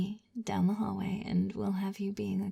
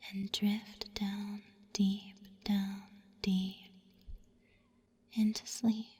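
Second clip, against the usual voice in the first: 1 slowed drift; 4 dB quieter, slower than usual. Acted. Hypnotic induction, drawn out.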